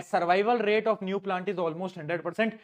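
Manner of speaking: slow, word by word for notes; slow dictation. Shown as a demonstration. Teacher dictating the definition slowly to students. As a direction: spell it out slowly so they can write. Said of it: "ये पांच point याद कर लो".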